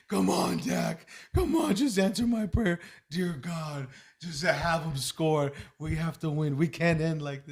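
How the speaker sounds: imitating a kid's loud, tearful begging; crying plea. Dad imitates his son praying for a Cowboys score, crying plea. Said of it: "He was crying towards the end".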